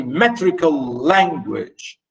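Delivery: "metrical language" stressed on "me" and "la"; stress on first syllables. Shown as a demonstration. Teacher showing stress to students, first syllables punched. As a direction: lean on the openings of "metrical" and "language". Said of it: "stress on m and l".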